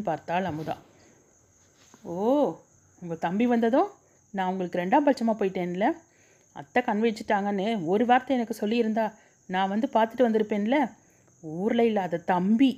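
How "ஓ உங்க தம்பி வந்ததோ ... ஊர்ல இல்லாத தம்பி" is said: fast, resentful grumbling under her breath; angry muttering. Acted. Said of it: "கோபத்துடன் சப்தமாக முணுமுணுத்தாள்".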